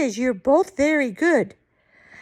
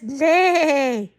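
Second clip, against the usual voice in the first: long wavering neigh; whinny it out like a horse. Acted. Grandma reads the horse's part, neighing. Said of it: "A horse says".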